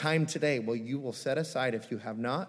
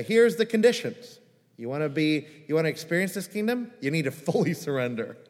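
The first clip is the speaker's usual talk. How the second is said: intense ambassador; 4 dB louder than usual. Pretend. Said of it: "that would be an intense ambassador".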